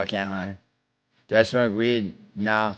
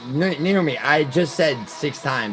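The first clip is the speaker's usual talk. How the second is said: higher and louder, fed up; exasperated; 3 semitones higher, 3 dB louder than usual. Real, not acted. Streamer fed up with Naomi's repeated question, exasperated. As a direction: come on, I already told you.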